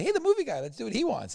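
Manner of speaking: high, loud, eager shout; high-pitched mock enthusiasm; excited call-out. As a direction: crow it out, rallying everyone round the idea. Acting out the rock star's entrance.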